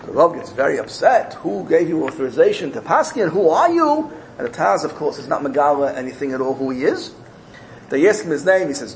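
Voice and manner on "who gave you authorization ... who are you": mild retold indignation, lifting on the last question; affronted rabbi's demand; indignant. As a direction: challenge him, voice climbing at the end. Indignant Rav confronts the Taz.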